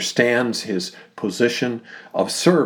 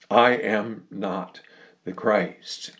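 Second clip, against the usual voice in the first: slow, measured denial with a pause after NOT; emphatic denial; slower than usual. Retold or imitated. Preacher quoting John's denial to the priests, emphatic. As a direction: set each word apart, firmly, without raising the voice. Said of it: "He emphatically denies that".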